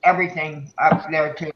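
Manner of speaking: talking through a mouthful of chips; words muffled by a chip; mouth full. Real, not acted. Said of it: "I got a potato chip in my mouth".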